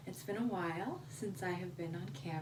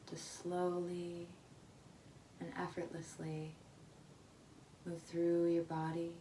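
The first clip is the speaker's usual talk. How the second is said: unhurried meditation voice with long pauses between phrases; guided meditation; 3 dB quieter than usual. Real, not acted. Meditation leader guiding listeners to their breath, spacious meditative delivery. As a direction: guide them gently into the breath, leaving space after each phrase.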